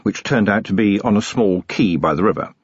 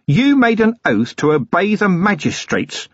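incredulous; 10 semitones higher than usual. A narrator's reading. Appalled at the oath.

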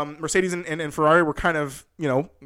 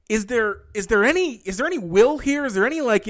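mildly exasperated, higher-pitched questioning; exasperated pleading; 6 semitones higher than usual. Retold or imitated. Fan despairing at the team's lack of will, exasperated. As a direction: plead in disbelief, stretching the first words.

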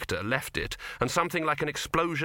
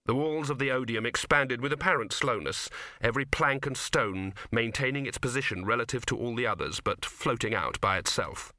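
ordinary delivery

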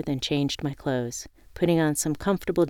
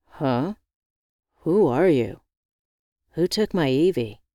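jesting. Acted. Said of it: "Hendrik jested".

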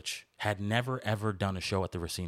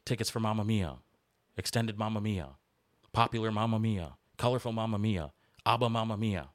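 booming sing song welcome; 4 semitones higher than usual. Retold or imitated. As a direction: hype it up like a carnival barker. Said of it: "It was more like".

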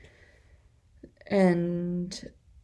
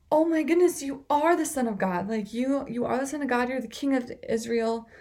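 amazed exclamation; 4 semitones higher than usual. Retold or imitated. Nathanael amazed, recognising Jesus.

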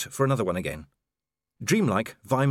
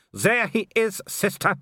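higher, taunting his sister; gloating werewolf; 11 semitones higher, 3 dB louder than usual. A narrator's reading. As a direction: present the beaten man with a sneer.

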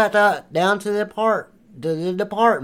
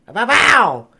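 loud, high exclamation; shouted catchphrase; 5 semitones higher, 8 dB louder than usual. Acted. Acting out his idea to the guys, shouted catchphrase. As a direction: belt it out like a gunshot sound effect.

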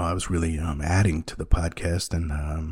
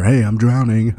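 laughing, higher and louder mock call for help; hammed-up cry for help broken by a laugh; mock drowning cry; 5 semitones higher, 9 dB louder than usual. Stranger jokingly calls out to the lifeguard, laughing mock cry.

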